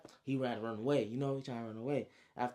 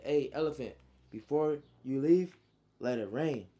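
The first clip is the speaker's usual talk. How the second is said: booming command; 3 semitones higher, 7 dB louder than usual. Acted. Elephant rider ordering his elephant to attack, loud deliberate command. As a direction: call out a grand battle command.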